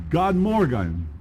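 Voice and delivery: God morgen tried with Swedish sounds, unsure; a hesitant learner's God morgen; Swedish attempt. Shown as a demonstration. Speaker tries a Swedish greeting, unsure.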